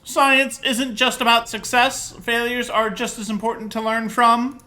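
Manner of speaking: high, loud, slow nerd lecture. Pretend. Player explaining science to a scientist, nerd voice. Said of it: "That's just my nerd voice".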